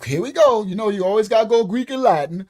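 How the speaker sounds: mock complaint, here we go again; exasperated. Real, not acted.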